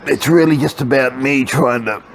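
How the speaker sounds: talking through a yawn; yawning and stretching. Real, not acted. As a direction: stretch and yawn mid-sentence. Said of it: "sorry, I'm lying on the couch, so I'm yawning and stretching".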